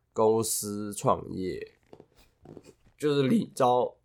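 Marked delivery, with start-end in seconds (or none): 3.0-4.0 cracked voice on the word; voice cracking. Real, not acted. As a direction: voice breaking mid-word. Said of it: "我敢破音".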